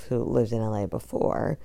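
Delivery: ordinary talk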